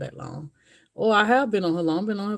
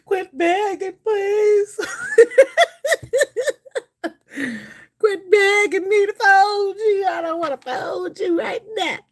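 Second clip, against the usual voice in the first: mock whiny refusal; 13 semitones higher, 6 dB louder than usual. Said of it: "I'm like".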